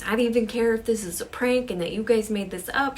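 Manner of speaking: acted fed-up protest; completely done. Sarah rejecting friends' possible prank, completely done. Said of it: "She is completely done".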